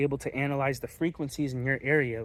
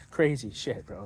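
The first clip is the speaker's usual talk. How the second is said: slow, soft, laughing disbelief; amused laugh; 4 dB quieter, slower than usual. Real, not acted. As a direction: chuckle it out quietly, slowly. Laughing over his own wild story.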